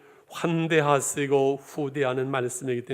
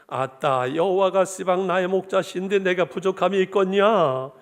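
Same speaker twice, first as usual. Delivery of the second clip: mock Jeolla dialect, a bit higher and lively; 3 semitones higher, 3 dB louder than usual. Pastor jokingly reads Psalm 23 to the church in a hammed-up Jeolla dialect. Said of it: "전라도 비전입니다".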